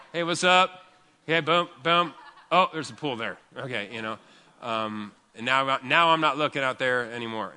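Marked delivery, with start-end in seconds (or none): 0.1-3.4 voicing a dog.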